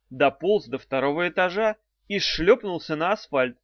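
plain reading voice

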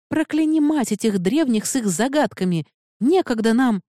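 выше и громче, с раздражением; сорваться от злости на загадки; злой выкрик. A narrator's reading. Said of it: "вне себя от злости". (Эда в ярости на загадки древних, громко)

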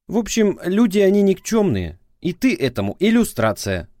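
prosecutor's voice. A narrator's reading. Ex-wife on the phone scolding him, prosecutorial tone.

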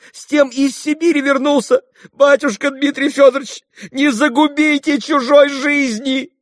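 высоко и громко, запыхавшись, умоляя; броситься в ноги и кричать в отчаянии; отчаянная мольба с криком. A narrator's reading. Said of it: "прибежала вся запыхавшись, с криком". (Феня в отчаянии молит Митю пощадить барыню)

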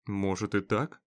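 a soft scoffing concession; smirking. Acted. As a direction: say it with a dry snort. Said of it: "хмыкнул Роджерс".

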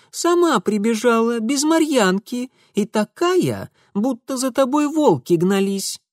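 a hint of a knowing village girl; lightly voiced girl.

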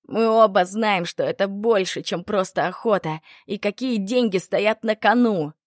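loud, irritated retort. Acted. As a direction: snap it back in irritation. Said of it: "раздражённо бросил Патолог".

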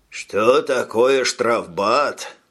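slow smug "Что такое штрафбат?", drawn out, stress on "Что"; smug repeat. Acted. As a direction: repeat it slowly with a self-satisfied smirk. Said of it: "переспросил ефрейтор и самодовольно ухмыльнулся".

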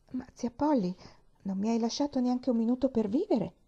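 a hint of a chatty young girl; eager little girl. Pollyanna answers her aunt, eager and a little flustered.

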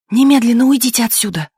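high, loud, furious order; angry hissing. A narrator's reading. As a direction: order them out, seething. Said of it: "зашипела она".

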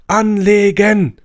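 commander's order. Acted. Commander barks at the firing squad, drawn-out shout.

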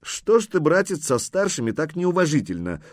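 high-pitched, mildly stern question. A narrator's reading. Horseman reproaching his young brother-in-law, stern. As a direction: take the youngster to task a little. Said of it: "строго спросил синеглазый Хузарин".

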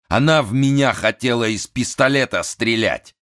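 высокий взвинченный голос хана; капризный напуганный вельможа; нервный хан. A narrator's reading. (взвинченный голос хана)

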